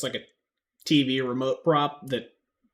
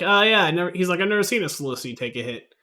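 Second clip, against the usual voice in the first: excited NPC; 7 semitones higher, 8 dB louder than usual. Acted.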